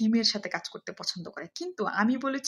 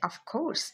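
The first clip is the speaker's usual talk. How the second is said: "of course" higher, rising at the end; emphatic intonation; 4 semitones higher than usual. Shown as a demonstration. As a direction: stress "of course" with conviction, lifting the pitch. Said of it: "same intonation আপনি ব্যবহার করবেন". ("of course" জোর দিয়ে, সুর তুলে)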